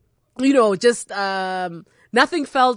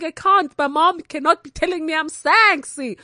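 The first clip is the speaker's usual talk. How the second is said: high, embarrassed protest; teen protesting her mom's words; mortified disbelief; 6 semitones higher than usual. Retold or imitated. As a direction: squeal it like a horrified kid. Mortified teen reacting to mother.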